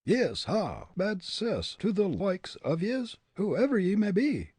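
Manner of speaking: high, indignant Irish brogue; fierce Irishman. A narrator's reading. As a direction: curse the unseen mocker in brogue.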